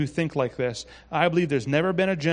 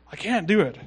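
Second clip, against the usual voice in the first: higher, louder mock helplessness; acted complaint; 5 semitones higher, 5 dB louder than usual. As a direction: play a mild protest to a mentor. Voicing Jerry complaining to his mentor.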